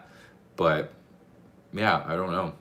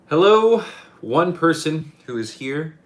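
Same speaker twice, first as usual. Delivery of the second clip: high, loud, bright hello; excited greeting; 10 semitones higher, 9 dB louder, slower than usual. Real, not acted. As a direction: greet them with a burst.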